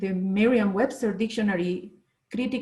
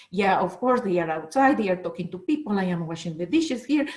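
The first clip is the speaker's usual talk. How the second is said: lower, sulky complaining aloud; a light imitation of a grumbling mother; grumbling complaint; 4 semitones lower than usual. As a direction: mutter about being left with the dishes. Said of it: "she was speaking like that, aloud".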